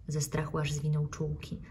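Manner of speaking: ordinary delivery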